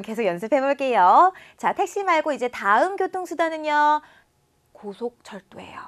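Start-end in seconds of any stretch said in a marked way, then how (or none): 4.7-5.8 whisper. Real, not acted. Teacher aside.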